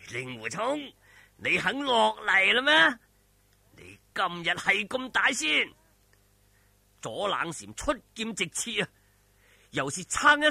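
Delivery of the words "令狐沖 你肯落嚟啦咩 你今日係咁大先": mock him for finally coming down; taunting villain.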